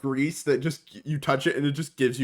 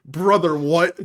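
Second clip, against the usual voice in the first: Brother, what? thrown out louder in mock shock; louder mock disbelief; 2 semitones higher, 5 dB louder, slower than usual. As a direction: punch up the disbelief, half joking. Repeating the joke line louder.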